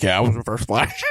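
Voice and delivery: villain standing from his wheelchair, mock gloating; mock villain reveal. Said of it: "he's like".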